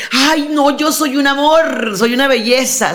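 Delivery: mock sweet girlfriend. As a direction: play at being a perfect darling. Acted self-praise of women while courting.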